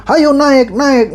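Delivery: high mock tout's call; lightly voiced tout calling passengers. Father imitates a bus tout, calling out. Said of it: "dia manggil-manggil".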